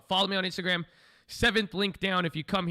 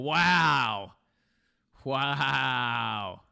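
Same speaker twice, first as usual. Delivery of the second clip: loud wow; 7 dB louder than usual. Real, not acted. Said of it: "That's funny".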